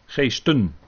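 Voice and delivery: GEESTEN with the final -en clearly sounded; stressed plural ending. Shown as a demonstration. Teacher pointing out the plural to listeners, plural ending stressed. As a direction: set "Geesten" apart, enunciating its plural -en.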